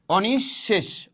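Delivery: অনিঃশেষ slowly, sh held double, onish-shesh; slow doubled sh. Shown as a demonstration. Teacher repeating the word, slow with doubled sh. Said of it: "কি হবে?".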